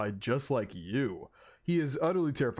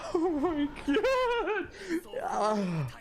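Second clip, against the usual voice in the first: high, slow teary laugh; choked up, laughing at yourself; laughing and crying; much slower than usual. Real, not acted. Fan overwhelmed by Subaru's speech, teary laugh. Overcome by emotional anime scene.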